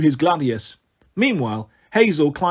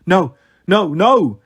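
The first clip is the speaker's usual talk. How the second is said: louder, anguished denial; muttered disbelief; 5 dB louder, slower than usual. A narrator's reading. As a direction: protest in shocked disbelief. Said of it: "he muttered as he ran to her side".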